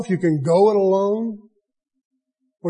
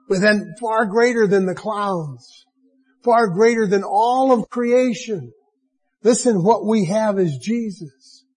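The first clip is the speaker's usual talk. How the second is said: a preacher's authoritative proclamation, slightly lifted; complete authority; 2 semitones higher than usual. Real, not acted. Preacher assuring brethren and friends of something greater, with complete authority. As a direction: declare it with firm conviction. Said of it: "let me say this with complete authority".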